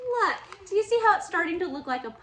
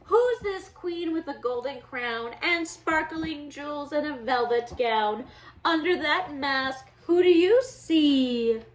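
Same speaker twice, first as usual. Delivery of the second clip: lively storybook read-aloud for little ones; reading to children; 3 dB louder, slower than usual. Acted. Teacher reading a Halloween book to her class, lively storybook voice. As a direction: read it like story time for kids.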